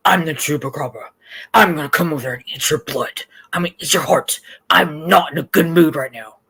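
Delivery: menacing monster voice; hangry voice. Retold or imitated. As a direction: growl it like a hungry beast. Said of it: "That's my hangry voice".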